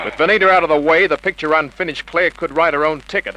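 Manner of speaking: heated reveal. Acted. Detective lays out motive heatedly.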